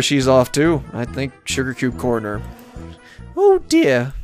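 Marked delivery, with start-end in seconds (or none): 3.4-4.1 high, fussy dismay; pitched-up worried exclamation; mock dismay. Mayor watching Pinkie dash off, dismayed.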